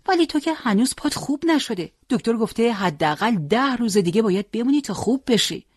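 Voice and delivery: high, lightly voiced young nurse protesting; caring nurse. A narrator's reading. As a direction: plead gently as the nurse.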